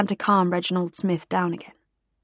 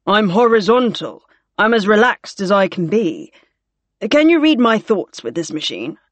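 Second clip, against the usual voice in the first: louder, lightly voiced wry officer; wry scanner patient; 2 semitones higher, 5 dB louder than usual. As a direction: quip drily from inside the scanner. Gore jokes inside the scanner.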